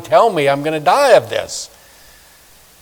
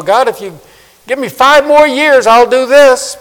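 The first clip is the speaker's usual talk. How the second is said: much higher, louder pleading bargain; mock bargaining; 10 semitones higher, 7 dB louder than usual. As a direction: whine a deal to God.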